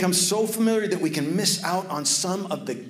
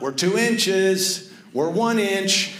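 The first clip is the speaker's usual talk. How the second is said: slow, higher and louder, calling out each inch; retold yell; 5 semitones higher, 4 dB louder, much slower than usual. Brother on the roof calling the water level, slow loud yell. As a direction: mimic a kid hollering from the roof. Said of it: "my brother keeps yelling out".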